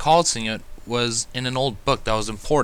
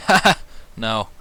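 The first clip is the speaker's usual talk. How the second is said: high, chirpy little dragon explaining; a dragon kid showing off his fire; excited exclamation; 8 semitones higher than usual. Acted. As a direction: gush about the magic. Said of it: "he exclaimed".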